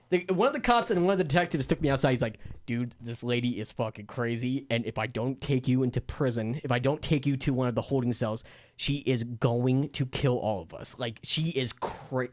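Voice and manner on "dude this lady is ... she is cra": confiding detective. Retold or imitated. Storyteller imitating detective taking him aside, low and confidential.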